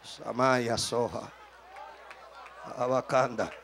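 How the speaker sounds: very low, slow, hushed utterance; soft, deep monotone in tongues; praying in tongues. Real, not acted. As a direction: murmur it like a private prayer.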